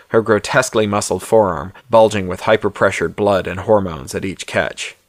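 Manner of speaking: measured audiobook-style narration; story narration. A narrator's reading. Author reads his novella aloud to listeners, story narration.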